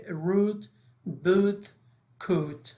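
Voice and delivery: "روت، بوت، کوت" each with a long او vowel. Shown as a demonstration. Teacher giving OA examples, each said as او.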